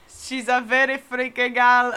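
slow, drawn-out diva attitude; sassy performed line. Pretend. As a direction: stretch it out slowly like a diva. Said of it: "that's how I feel".

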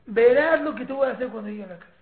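imitating an angry dad on the phone; mock threat. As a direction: threaten the kid with what's coming at home. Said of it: "le digo".

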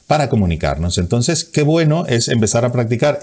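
normal talking voice

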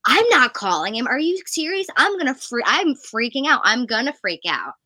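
high, loud, frantic disbelief; panicked fangirl. Retold or imitated. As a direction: squeal like you can't believe you have to call him. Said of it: "and she was like".

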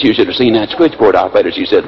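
ordinary talk, nothing marked

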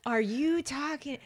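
high, drawn-out imitation of disbelief; mock bafflement. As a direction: act out a friend utterly thrown by slang. German friend baffled by slang.

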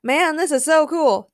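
high, delighted fan voice; acted thrilled cheer. A narrator's reading. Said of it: "cheered Daniel".

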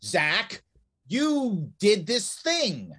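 mock agent calling out, then dragging it slowly; accusing agent. Agent confronting Zach, slow mock accusation. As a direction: point the finger at Zach, slowly and deliberately.

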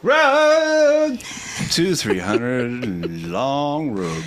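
theatrical drawn-out reading; Broadway delivery. Acted. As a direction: stretch it out like a stage line. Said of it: "Am I doing Improv Broadway over here?".

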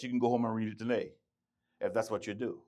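usual speaking voice

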